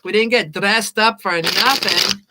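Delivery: lightly done mock Scottish film quote; amateur Scottish accent, gently put on; fake Scottish accent. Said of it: "fake and horrible Scottish accent".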